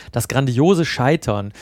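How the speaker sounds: slow, deliberate weight on "grandiose"; Betonung auf GRANDIOSE. Real, not acted. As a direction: draw out the phrase, stressing "grandiose". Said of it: "die Betonung liegt auf grandios". ("grandiose" langsam und betont)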